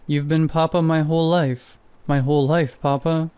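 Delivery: put-on a light Russian accent, a scared child pleading; a scared boy's lines in a light Russian accent. A frightened boy answers his startled Papa, in a light Russian accent. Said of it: "Was that a Russian accent?".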